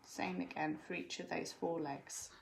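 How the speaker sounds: whispered aside, no voice. Real, not acted. Children quiet in the room.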